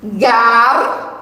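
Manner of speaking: gar said alone as one syllable; first syllable gar set apart. Shown as a demonstration. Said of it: "Nesta palavra nós temos".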